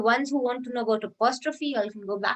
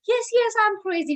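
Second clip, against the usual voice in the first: mock answer; 11 semitones higher, 5 dB louder than usual. Shown as a demonstration. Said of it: "Who's going to say that".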